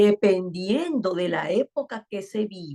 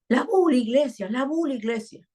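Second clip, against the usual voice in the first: put-on child's voice; 6 semitones higher than usual. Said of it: "Entonces él".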